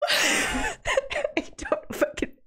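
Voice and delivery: words stretched by a yawn. Real, not acted. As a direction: yawn mid-sentence. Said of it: "without fucking yawning".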